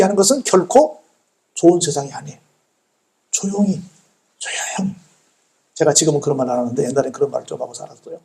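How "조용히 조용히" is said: softening to a near whisper; quietly. Shown as a demonstration. Preacher urging the congregation to be quiet, hushed. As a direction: hush down to breath on the second word.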